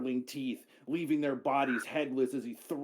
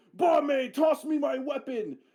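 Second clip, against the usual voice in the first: yelling in character, higher and louder; 13 semitones higher, 5 dB louder than usual. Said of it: "as you shout".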